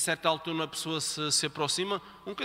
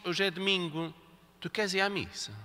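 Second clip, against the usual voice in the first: gentle invitation. Shown as a demonstration. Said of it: "Porquê é que não dizes".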